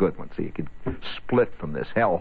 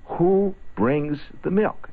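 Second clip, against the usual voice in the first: teacher voice; 8 semitones higher, much slower than usual. Retold or imitated. Teacher quizzing, slow.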